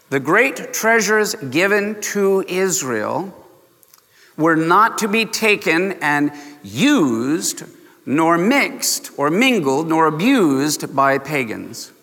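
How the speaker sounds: slow, weighty sermon delivery; measured, deliberate preaching. Shown as a demonstration. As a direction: spell it out word by word. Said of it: "Listen very slowly and very carefully".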